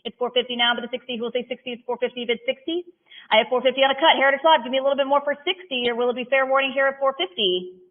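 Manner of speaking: rhythmic auctioneer chant, numbers rolled out; auction bid calling. Acted. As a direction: call the bids like an auctioneer.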